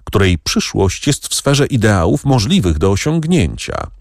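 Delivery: quick, high and eager; brisk, animated defence; lively. A narrator's reading. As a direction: rush it out with spirit. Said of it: "zawołała żywo Kasia".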